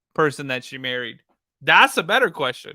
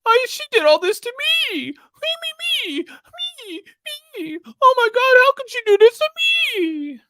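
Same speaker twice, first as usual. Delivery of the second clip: shrill, very high mock self-pity; mocking whine. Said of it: "All I hear is".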